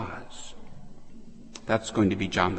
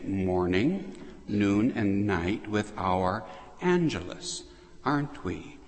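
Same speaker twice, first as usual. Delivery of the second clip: usual speaking voice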